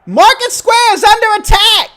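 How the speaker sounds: huge booming shout; high, full-volume alarm call projected beyond a megaphone; Bucky. Acted. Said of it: "booming voice".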